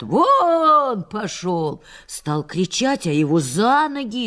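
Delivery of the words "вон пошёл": slow, louder jeer; a mock crowd yell, drawn out; crowd shout. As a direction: bark him off the monument. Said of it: "а ему кричат".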